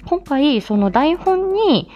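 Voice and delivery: normal talking voice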